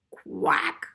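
high, short quack; duck quack. Acted. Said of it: "And the duck said".

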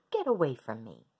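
loud, low dismissal; angry. Acted. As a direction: push him away sharply. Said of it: "cried the Rainbow Fish".

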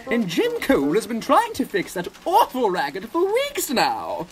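high-pitched, indignant complaint; snapping. Acted. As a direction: huffily put the intruder straight. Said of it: "snapped Elizabeth".

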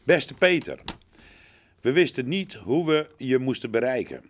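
rhyming gift verse with pauses between phrases; poem reading. Acted. Reads a gift poem aloud.

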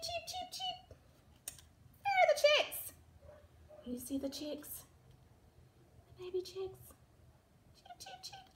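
high whispered peeps; hushed little chick whispers. Acted. Chicks voiced, whispering aside.

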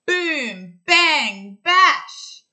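loud, high booming drum noises; drum sounds. Acted. Storyteller making the bear's drum noises for kids, loud and high. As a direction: bash it out like a wild drummer. Bear bashing the drums.

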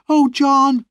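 high, pleading sister's cry near tears; tearful cry. A narrator's reading. Sister begging her brother, crying high and desperate. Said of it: "she cried".

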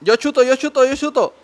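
high, loud repeated call; shouting. Real, not acted. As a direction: call for the ball. Calling for the ball.

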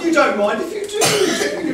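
camp pantomime dame. Acted. Panto wordplay to audience.

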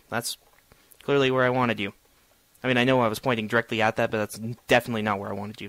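mock the block with dry sarcasm; sarcastic. Real, not acted. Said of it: "That was sarcasm".

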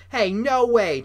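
high, loud burst of protest. A narrator's reading. Bully objects to his friend's deal, loudly protesting. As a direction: object sharply, pitch jumping up. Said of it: "began to protest".

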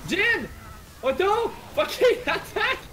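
urgent callouts. Real, not acted.

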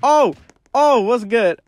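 sudden high loud yelps of surprise; startled yelps. Real, not acted. Startled by a sudden enemy, loud high yelps. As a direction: caught off guard, yelping high.

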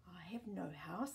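a whispered gentle tree; 树轻声低语. Acted. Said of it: "said the tree".

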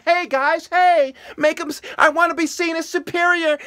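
hammed-up high mocking voice; mocking show-off. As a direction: sneer it like a spoiled snob wanting praise. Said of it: "They're like".

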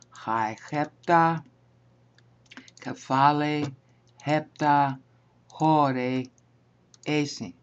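slow Greek, each word set apart. Shown as a demonstration. Teacher showing the class the literal Greek, slow word-by-word reading. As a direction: read the Greek one word at a time, with pauses.

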